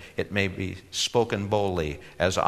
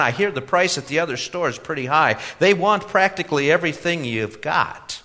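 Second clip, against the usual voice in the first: put-on much higher, earnest young man; eager young man voice; 6 semitones higher, 3 dB louder than usual. A narrator's reading. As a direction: naive youth, pitched up and louder.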